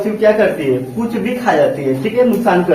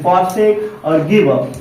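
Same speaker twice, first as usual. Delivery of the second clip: slow breakdown; 4 semitones lower, slower than usual. Shown as a demonstration. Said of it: "तो ऐसे याद करते हैं".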